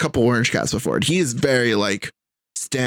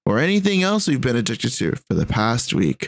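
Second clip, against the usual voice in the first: flight attendant. Acted. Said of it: "Why do you sound like a fucking flight attendant?".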